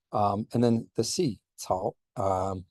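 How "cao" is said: "Cao" starting with a TS sound. Shown as a demonstration. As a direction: say "Cao" like "tsao". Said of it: "that is like a T S".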